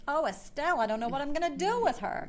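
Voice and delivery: lightly put-on good phone voice; a hint of a put-on office voice; Phoebe. Co-host quoting Phoebe's fake agent call, lightly put-on voice. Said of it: "she puts on this really good voice".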